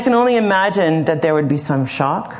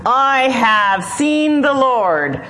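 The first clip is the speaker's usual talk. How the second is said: slow, higher, hushed wonder; awe; 6 semitones higher, much slower than usual. A narrator's reading. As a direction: breathe it out in amazement. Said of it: "awe in her voice".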